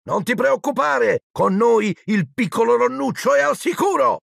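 high, cooing mock comfort; high-pitched playful baby talk; teasing reassurance. A narrator's reading. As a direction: tease a little brother while soothing mum. Twins mockingly reassure mother.

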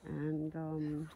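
talking through a face mask; muffled voice behind a mask. Real, not acted. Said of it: "I'm wearing a mask".

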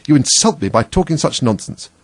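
indignant high-pitched scolding; offended. A narrator's reading. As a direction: fling the accusation crossly. Offended mouse scolds Alice.

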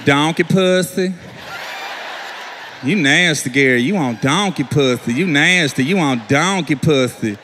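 low, slow taunting chant; wife taunting in a low repeated chant; wife mocking. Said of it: "She was like".

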